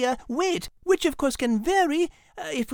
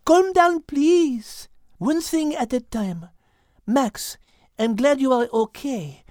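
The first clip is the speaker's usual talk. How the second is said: calm Liz. Acted. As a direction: settle them down reasonably. Liz calming the group.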